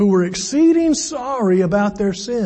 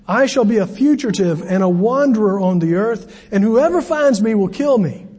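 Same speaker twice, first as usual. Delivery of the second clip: self-pitying Cain; 3 semitones higher than usual. Acted. Cain's self-pitying complaint.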